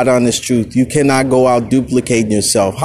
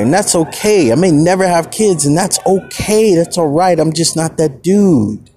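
defiant rant. Retold or imitated. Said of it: "I was like".

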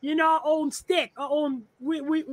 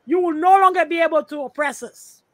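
forceful declaration; 3 semitones higher, 6 dB louder than usual. Real, not acted. Builds his point to a climax.

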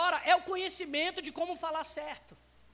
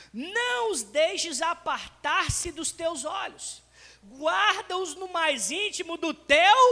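slow, solemn Bible reading; preacher reading Proverbs aloud; scripture reading; slower than usual. Acted. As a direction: read the verse with weight.

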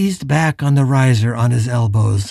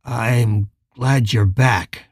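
feigned vulnerability; 2 semitones lower, much slower than usual. Acted. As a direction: play helpless to draw him in. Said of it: "trying to pitch his own voice with some vulnerability".

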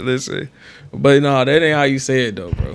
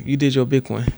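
put-on light rapper's accent. Shown as a demonstration. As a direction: say it with a touch of Miami. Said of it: "a rapper's accent".

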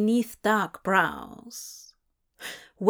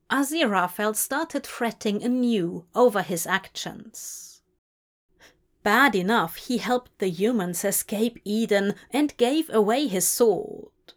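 ordinary delivery, nothing marked

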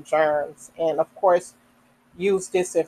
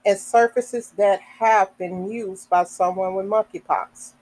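measured read-aloud of a health notice; reading information aloud. Real, not acted. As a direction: read it out sentence by sentence, with pauses between.

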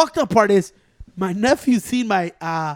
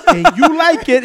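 higher, louder "you like it", pushed hard; pushy tease; 7 semitones higher, 10 dB louder than usual. Retold or imitated. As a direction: lean on "like" to sell the deal. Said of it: "he pushes it up".

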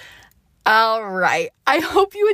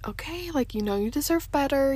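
gentle; 5 semitones higher, 4 dB quieter than usual. Retold or imitated. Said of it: "very gently".

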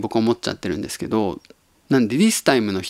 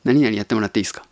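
rattled off fast, light and offhand; 何々やってもらっていいですか said fast in full voice; quick casual request; much faster than usual. Retold or imitated. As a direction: toss the favor out quickly in voice. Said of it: "みたいな言い方".

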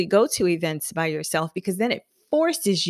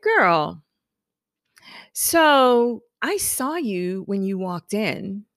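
friend's voice; slower than usual. Retold or imitated. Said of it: "So she was like".

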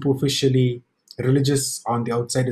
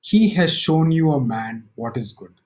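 calm reply. Acted. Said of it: "his reply is so calm".

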